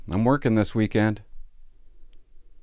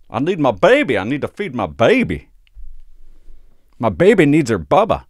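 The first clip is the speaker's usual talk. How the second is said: put-on drunk mom wail; 5 semitones higher, 7 dB louder than usual. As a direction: wail like a sloppy drunk mother. Drunk mom voiced again.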